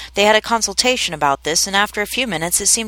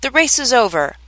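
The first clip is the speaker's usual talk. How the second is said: sudden raised announcement; calling out; 5 semitones higher than usual. Acted. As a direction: call it out to everyone. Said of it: "the dodo suddenly called out".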